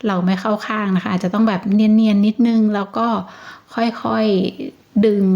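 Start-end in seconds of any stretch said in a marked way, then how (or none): 3.8-5.2 ค่อยๆดึง stretched very slow, word by word; ค่อยๆดึง drawn out very slowly. Shown as a demonstration. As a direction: say ค่อยๆดึง slowly, acting out a gentle pull.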